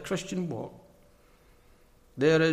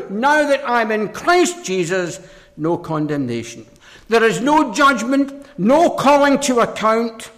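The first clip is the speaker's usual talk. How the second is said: raised, ringing pulpit delivery; forceful preaching; 8 semitones higher, 8 dB louder than usual. Real, not acted. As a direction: preach it out high and loud.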